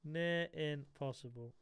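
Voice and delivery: slow echo. Real, not acted. Slow musing echo of own words.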